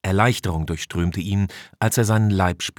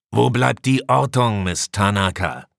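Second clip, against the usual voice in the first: commander's demand; 3 semitones higher, 4 dB louder than usual. Acted. Commander calls for the sensor report from Tanaka, demanding. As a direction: call it out loudly across the bridge.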